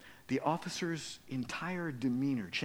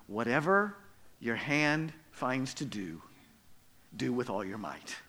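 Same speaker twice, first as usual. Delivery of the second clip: scripture reading. Acted. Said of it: "a verse in the Bible".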